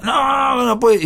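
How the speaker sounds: high-pitched mock yell, pitch jumping up; retold yell. Friend Julio yelling at the singer, mock high shout. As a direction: echo a friend's frustrated outburst. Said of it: "y me gritaba".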